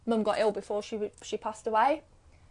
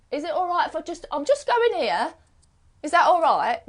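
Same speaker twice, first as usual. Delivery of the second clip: timid permission asking; 7 semitones higher, 5 dB louder than usual. Pretend. Asking permission, people pleaser voice.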